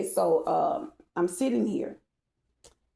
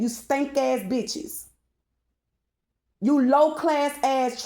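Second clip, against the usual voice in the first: pissed off; 6 semitones higher, 3 dB louder than usual. Real, not acted. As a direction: scream the insults at them, higher and louder. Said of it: "you'll see why I'm getting pissed off".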